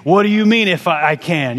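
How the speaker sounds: playfully offended comeback; indignant tone. Retold or imitated. Jesus answering the doubting father, mock indignant. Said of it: "That's the kind of tone".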